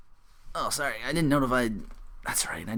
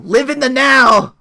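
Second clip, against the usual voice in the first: slow, loud booming catchphrase; mock wrestler catchphrase; 7 semitones higher, 9 dB louder, slower than usual. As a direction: proclaim it like a ring promo, drawn out.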